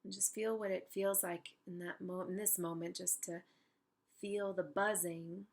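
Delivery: unhurried meditation guide with long pauses; calm, spacious guided-imagery voice. Real, not acted. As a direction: guide them gently into stillness, leaving space between phrases.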